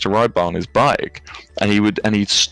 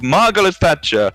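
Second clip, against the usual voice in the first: Italian cyclist's shout-out; 8 semitones higher, 3 dB louder than usual. Retold or imitated. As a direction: imitate an Italian man calling from his bike. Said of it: "just this Italian man on his bike".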